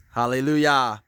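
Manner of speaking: loud, ringing hallelujah; exclaimed praise. Real, not acted. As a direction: call it out in praise. Praising God at the fence.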